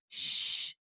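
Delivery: soft unvoiced shush. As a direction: hush the noise. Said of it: "said Gus".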